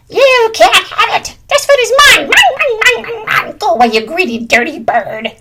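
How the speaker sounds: possessive yell. Acted. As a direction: scream mine like a spoilt child. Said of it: "He yelled at Blue Jay".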